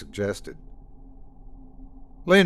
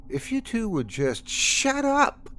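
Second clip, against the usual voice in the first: much higher, slow, yelled; hollered; 13 semitones higher than usual. Acted. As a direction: blow up at them. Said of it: "Lena hollered the last".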